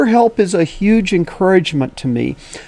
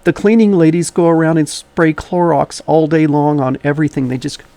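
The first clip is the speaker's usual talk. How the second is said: slightly wheezy from asthma. Real, not acted. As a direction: speak with a light wheeze. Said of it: "a little bit of a wheezy voice today".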